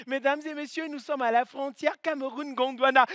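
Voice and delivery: soft flight attendant announcement; over the intercom. Retold or imitated. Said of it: "la femme qui a souvent la belle voix".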